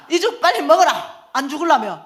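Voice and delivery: loud, high scolding command; forceful order. Retold or imitated. Mother ordering a homeless man to eat porridge, forceful shout. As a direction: boss him into it like a tough mother.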